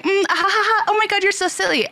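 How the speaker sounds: high giggly ditzy voice; bimbo act. Retold or imitated. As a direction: giggle and gush like an airhead. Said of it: "go into that bimbo act".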